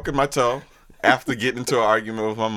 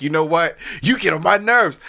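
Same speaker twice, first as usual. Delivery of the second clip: higher, mock-exasperated outburst; retold annoyance; 7 semitones higher, 4 dB louder than usual. Son arguing with his mom, retold in high annoyance. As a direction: snap it out high, imitating an irritated teen.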